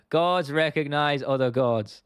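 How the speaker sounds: slow, drawn-out mock Irish swagger; lightly put-on Irish voice, each word stretched; Conor McGregor impression. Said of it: "a good line from McGregor".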